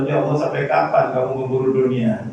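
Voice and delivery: inner mother voice. Acted. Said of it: "kata ibunya dalam".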